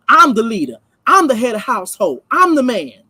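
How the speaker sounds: I'm stressed each time in a lightly voiced boastful husband; a hint of a self-important man at home; mocking macho man. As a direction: parody a man puffing himself up as the head. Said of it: "When you get into certain conversations".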